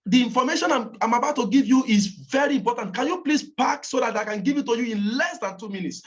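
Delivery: confident, in-charge request with firm stresses; emphatic. Shown as a demonstration. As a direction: insist firmly but politely. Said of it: "Talk emphatically".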